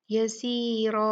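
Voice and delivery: यसीरा with a thick, full रा; यसीरा ending on a heavy रा. Shown as a demonstration. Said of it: "ये रा मोटी पड़ी जाएगी".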